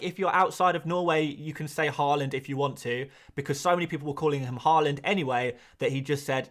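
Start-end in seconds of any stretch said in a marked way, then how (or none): none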